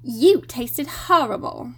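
slow prim schoolgirl; Hermione impression. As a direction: do a bossy know-it-all schoolgirl. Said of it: "the worst Hermione impression ever".

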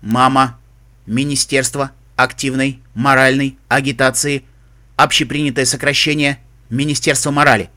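even mechanical search report; robot voice. Acted. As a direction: read like a database. Computer search readout. (механический голос)

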